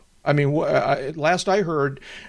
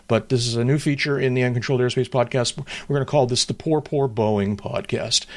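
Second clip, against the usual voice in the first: facetious. Acted. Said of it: "I'm being facetious".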